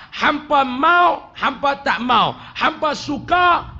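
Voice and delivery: usual speaking voice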